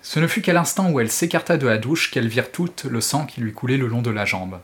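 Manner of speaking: dramatic audiobook reading; expressive French audiobook narration; story narration. A narrator's reading. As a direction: read the novel like a storyteller. Reads Stephen King excerpt aloud.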